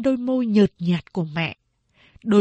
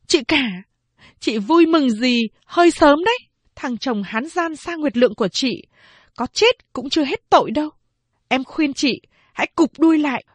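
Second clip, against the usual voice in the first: high, louder sneering warning; taunting sister; 5 semitones higher, 3 dB louder than usual. A narrator's reading. Phán Đệ taunting eldest sister in a quarrel, raised voice. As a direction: taunt your sister hard.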